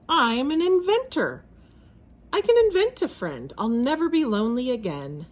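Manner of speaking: high, eager and excited; bright sudden idea, voice climbing. Acted.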